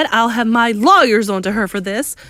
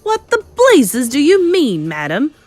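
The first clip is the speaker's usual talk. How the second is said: outraged shout; 9 semitones higher, 8 dB louder than usual. Acted. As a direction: shout it in indignant disbelief. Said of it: "shouted Mister Jenkins".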